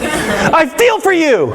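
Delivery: high, very slow reluctant drone; same grudging tone. Shown as a demonstration. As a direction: say it like a forced apology, half-laughing. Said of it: "say the definition of sorry with the same tone".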